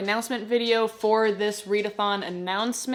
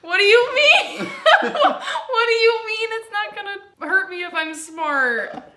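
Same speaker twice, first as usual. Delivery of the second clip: nervous laughing; 11 semitones higher, 6 dB louder than usual. Real, not acted. Panicked guessing game, laughing.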